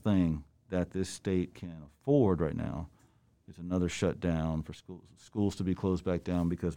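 muffled through a mask; talking through a face mask. Real, not acted. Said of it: "we are speaking through mask".

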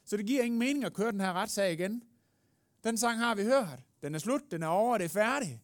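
loud, insistent closing argument; forceful advocate. Acted. Advocate refusing to reopen the trial, loud and forceful.

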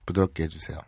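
very soft, low request; hushed, intimate acted plea. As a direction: murmur it tenderly as the story's woman. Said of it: "아사코가 얘기합니다".

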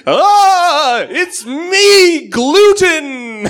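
wailing monster. Acted. Monster at the Monster Mash announcing itself with a loud wail. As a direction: moan it out like a ghoul.

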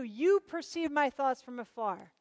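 slow, with weight on "You"; stretched, stressed "You" opening the verse; emphatic YOU. Shown as a demonstration. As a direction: lean on the word "You", then ease off. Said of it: "It's emphatic".

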